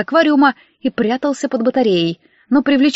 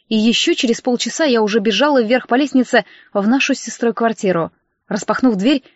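ordinary delivery

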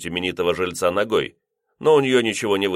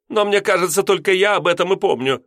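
much higher, pointed complaint; reproachful landlady; 11 semitones higher, 4 dB louder than usual. A narrator's reading. Landlady reproaching the lodger, high and pointed. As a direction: needle him with it.

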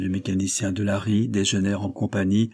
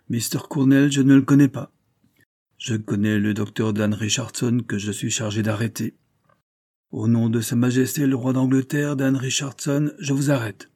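stern arrest; 3 semitones higher than usual. Acted. Detective arresting the doctor, stern and formal. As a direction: pronounce the arrest with authority.

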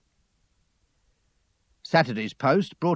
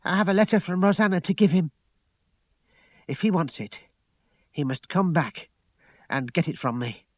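high, urgent, raised voice easing down; heated, higher-pitched insistence; insistent; 6 semitones higher, 3 dB louder, faster than usual. A narrator's reading. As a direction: lay down terms heatedly. Lucy insists on handing over letter.

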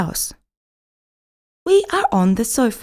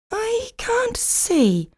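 Blackie's voice; 13 semitones higher, 4 dB quieter, much slower than usual. A narrator's reading. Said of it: "says Blackie".

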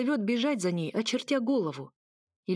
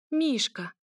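sobbing cry; 7 semitones higher than usual. A narrator's reading. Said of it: "всхлипнуть".

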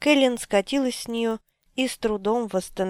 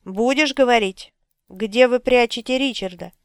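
louder, pressing demand; angry interrogator; 2 semitones higher, 5 dB louder than usual. Acted. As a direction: force the answer out. Drefan interrogates Cara. (злой допрос)

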